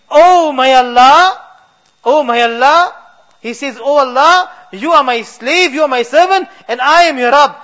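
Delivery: a man lost in joy, calling to God; ecstatic blunder. Acted. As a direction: call out beside yourself with joy.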